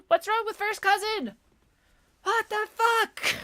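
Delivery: outraged disbelief. Real, not acted. Vlogger reacting to a banned cousin word, incredulous shriek.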